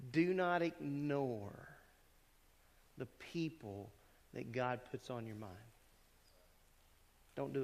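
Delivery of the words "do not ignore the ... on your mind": slow, drawn-out gentle admonition; nicely firm. Real, not acted. Preacher urging the congregation not to ignore people, nicely firm. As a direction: urge it slowly and firmly, but kindly. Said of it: "I'm saying this nicely".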